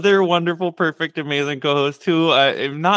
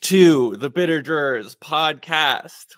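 staccato; 2 semitones higher, 3 dB louder, slower than usual. Shown as a demonstration. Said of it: "I'm just doing staccato".

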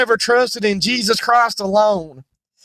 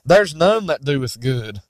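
lower, slow stern judge; voice of Jesus; 6 semitones lower than usual. Acted. Jesus telling the religious to depart, lightly voiced stern judge. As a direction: pronounce the sentence gravely. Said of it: "Jesus is gonna say".

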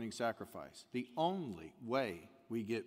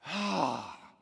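sigh of relief; 4 semitones higher, 5 dB louder than usual. Acted. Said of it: "Humanity sighs and says".

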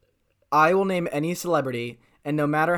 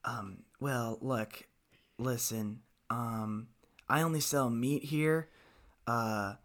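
John Travolta; 3 semitones lower, 8 dB quieter than usual. Acted. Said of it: "John Travolta if he just got back from a trip to Jamaica".

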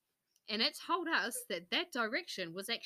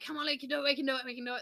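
cheery encouragement; 3 semitones higher, much faster than usual. Retold or imitated. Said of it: "all positive and happy".

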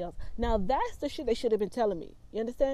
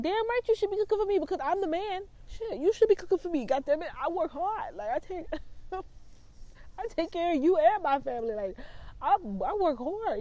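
mocking the boyfriend; 8 semitones higher than usual. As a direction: ham up the entitled boyfriend, slowing near the end. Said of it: "I was like".

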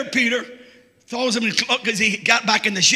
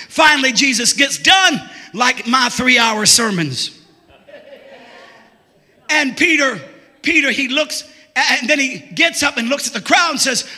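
full-force preaching; 4 dB louder than usual. Acted. Preacher shouting the story of Peter to his church. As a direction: preach it out to the rafters.

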